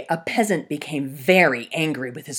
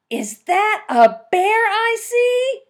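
much higher, slow calling hunter voice; hunter's voice; 8 dB louder, slower than usual. Acted. Fox disguising her voice as a hunter calling out. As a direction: call out from afar like a hunter.

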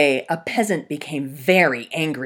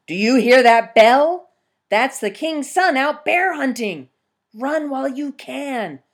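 higher, loud urgent alarm; urgent warning; 8 semitones higher, 8 dB louder than usual. Acted. Peasant urgently telling the bear to run. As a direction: warn the bear in a hurry.

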